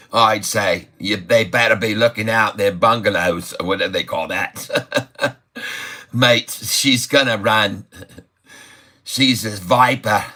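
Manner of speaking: lightly put-on Aussie twang; Australian accent. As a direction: play the excited Aussie market host. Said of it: "typing like the Australians a bit anyway".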